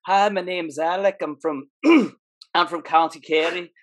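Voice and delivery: retold put-on Irish accent; casual fake Irish lilt. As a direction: attempt an Irish accent to pass as Irish. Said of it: "go with, like, an Irish accent".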